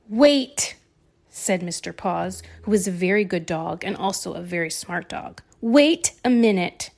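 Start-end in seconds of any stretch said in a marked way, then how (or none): 0.1-0.8 excited realisation. Acted. Dog has an idea. 5.6-6.9 excited realisation. Acted. Dog has an idea.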